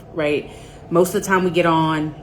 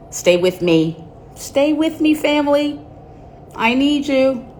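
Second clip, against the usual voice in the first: high, hammed-up begging; mock plea; 9 semitones higher than usual. Host begging viewers to wait for the late guest, mock dramatic. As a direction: beg the audience to stay, dramatically. Pleading with viewers during delay.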